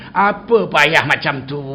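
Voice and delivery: slow, drawn-out scoff. Retold or imitated. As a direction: stretch it out, dismissively. Mocking how easy it is.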